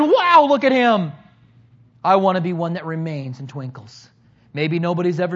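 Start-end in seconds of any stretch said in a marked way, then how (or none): 0.0-1.1 higher, louder mock wow; mock amazed. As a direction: lightly play an impressed onlooker. People marvelling at a shooting star.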